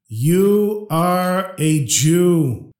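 very slow, drawn-out inner call; a soul calling out to him, long and slow; inner cry. Acted. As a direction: stretch each word like a voice from the soul. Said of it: "my soul started screaming".

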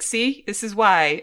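drawn-out self-justifying proof; hammed-up told-you-so; mock justifying. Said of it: "almost as my".

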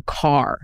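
"car" with the final r sounded; hard R. Shown as a demonstration. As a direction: say "car" slowly with a hard American R. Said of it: "So we're hearing the hard R".

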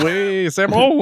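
high, slow mock-French approval; hammed-up French accent, stretched out. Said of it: "do it in a French accent".

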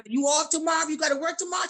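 high-pitched, eager questions; chirpy small talk. Retold or imitated. Shopper chatting with cashier Rita, chirpy questions.

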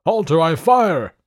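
high, very loud command; urgent full-voiced cry; shouted warning. A narrator's reading. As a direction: shout it like a sentry. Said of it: "He cried".

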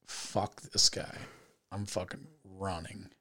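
slow hushed whisper under his breath; muttered to himself. Retold or imitated. Driver deciding to flee the crash, whispered slowly. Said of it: "I went".

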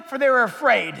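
loud preacher's shout, falling at the end; full-force end of a shouted verse; shouted proclamation. Shown as a demonstration. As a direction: proclaim it forcefully, bringing the pitch down to close.

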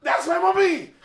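high-pitched wail through laughter; high laughing whine. Retold or imitated. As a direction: squeal it out, laughing. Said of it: "I was like".

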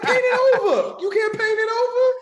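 mock pleading. Acts out begging disciples.

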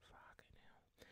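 whispered swear under the breath; whispered curse. Real, not acted. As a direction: curse softly to yourself. Whispered curse over tech.

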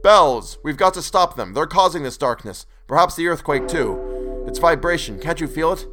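urgent shouting. Acted. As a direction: press the point loudly over the din. Denton shouting urgently amid quake.

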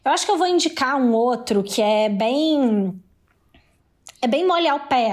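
talking right after a sip of water; words with a wet mouth from water; just sipped water. Real, not acted. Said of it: "deixa eu tomar um gole d'água".

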